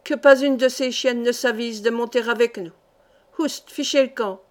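enraged yell, menacing to the end; furious shout. Acted. Fat Turk orders the boatman to keep women off: enraged yell. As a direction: shout the order, spitting rage. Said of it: "cria rageusement au batelier".

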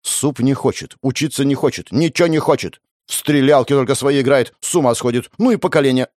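lightly voiced mum ranting; exasperated mother. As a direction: rant like an exasperated parent. Mother complaining about kid. (раздражённая мама, слегка сыграно)

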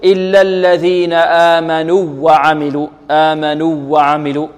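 آمنوا وعملوا with the long u merged into a doubled w; wrong merging. Shown as a demonstration. Teacher showing students the mistake, merged w. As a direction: cut the u of آمنوا short and lean on the w. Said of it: "لا نقول".

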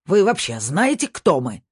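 loud, high-pitched outraged challenge; indignant shout. A narrator's reading. Angry golfer pulling rank on the intruder, indignant shout. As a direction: raise pitch and volume in indignation. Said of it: "снова закричал первый".

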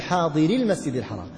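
حاضري run straight into المسجد, the ي dropped; joined reading demo. Shown as a demonstration. Teacher shows the ي dropping when words are joined. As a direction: read حاضري المسجد as one link, ي not sounded. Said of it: "تسقط هذه الياء".

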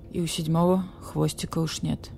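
husky from holding back tears; hoarse. Acted. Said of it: "Глухим, севшим голосом подсказал барсукот".

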